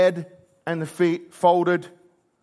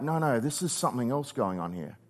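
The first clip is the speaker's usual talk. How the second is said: quiet John; 4 semitones lower, 6 dB quieter than usual. Retold or imitated. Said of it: "John's like".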